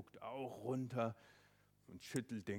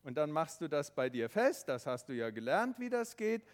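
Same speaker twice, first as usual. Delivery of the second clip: lightly voiced father calling down, louder; 5 semitones higher, 10 dB louder than usual. Father calling down the cliff to his son, reassuring. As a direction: reassure the boy from above. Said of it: "der Papa sagt zum Tobi".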